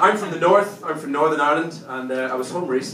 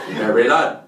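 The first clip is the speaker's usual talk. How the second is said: lightly hammed-up Belfast hard case, loud; aggressive Belfast accent; 3 semitones higher, 6 dB louder than usual. Comedian showing his fiance how Belfast sounds, mock-aggressive Belfast accent. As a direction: pick a fight in a Belfast accent. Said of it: "you ever been to fucking Belfast?".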